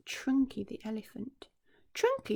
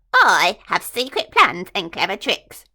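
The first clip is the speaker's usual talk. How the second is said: secret boast; 12 dB louder than usual. Acted. Crocodile repeating his boast.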